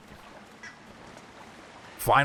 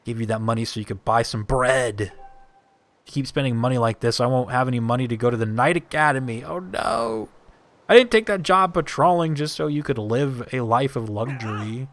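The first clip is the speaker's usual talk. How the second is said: voiced quarrel. Voices game characters arguing.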